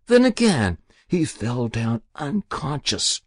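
put-on a guilty old woman pleading with the inspector; Muriel's voice. Muriel recounts the murder.

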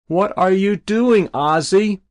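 high, loud worried calling; anxious mother calling. Acted. Mother calling up to her son on the roof, high anxious calling. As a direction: call up to your boy, frightened.

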